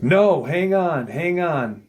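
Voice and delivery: retold call to halt, pitch swooping up; urgent interjection. Geologist halting his group as the friend is missing, urgent interjection.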